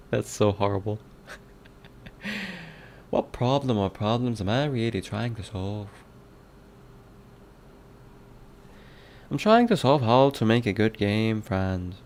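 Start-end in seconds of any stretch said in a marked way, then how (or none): 3.1-11.9 put-on a playful lilting Irish accent on the whole reading. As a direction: read it like a cheery Irishman. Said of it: "Yeah, it's Irish. Irish accent".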